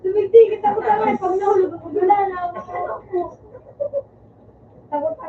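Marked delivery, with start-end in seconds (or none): 0.0-2.5 fast, loud and scared. Real, not acted. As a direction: blurt it, afraid to fall. Afraid of falling in game.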